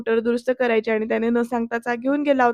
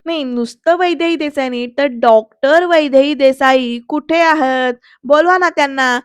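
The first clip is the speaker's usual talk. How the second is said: joking mock formality. Varad teases the family over doctor Vaidehi, mock formal. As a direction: tease with pompous respect. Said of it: "हसत joke केल्यासारखं".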